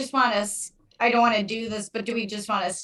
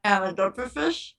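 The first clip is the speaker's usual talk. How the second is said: cheeks squished, muffled words; 2 semitones lower than usual. Pretend. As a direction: say it with cheeks squeezed in. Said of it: "Squish 'em".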